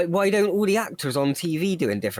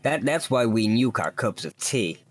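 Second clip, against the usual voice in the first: mock American accent. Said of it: "done an American accent".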